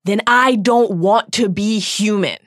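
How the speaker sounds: put-on furious teenage roar, slowed down. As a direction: roar it at the old man in despair. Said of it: "Harry roared".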